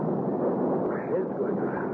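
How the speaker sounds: slow, breathless, dazed whisper; fading as the room spins; dizzy. Acted. Alex reeling in the haunted room, slow dazed whisper. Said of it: "I'm still dizzy".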